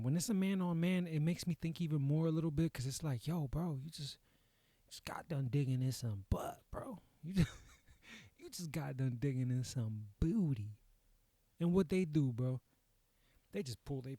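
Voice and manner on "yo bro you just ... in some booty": mock bro talk. Imitating movie characters after sex.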